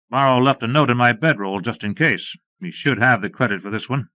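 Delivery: a hint of a laconic Ranger explaining; Beaudry lightly voiced, explaining; lightly voiced lawman.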